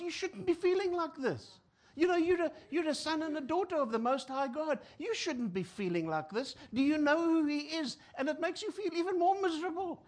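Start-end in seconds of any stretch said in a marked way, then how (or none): 0.0-8.0 higher, louder preachy scolding; preachy lecturing. Retold or imitated. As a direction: scold them from on high like a know-it-all. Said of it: "When someone says".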